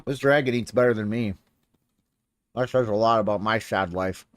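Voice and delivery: chewing ice while talking; ice in mouth. Real, not acted. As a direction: talk around crunching ice. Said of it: "Sorry, I'm chewing ice".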